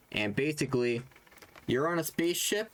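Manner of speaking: halting, with hesitant pauses; stumbling. Real, not acted. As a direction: feel your way through the explanation, stopping and restarting. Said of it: "You kind of stumbling there".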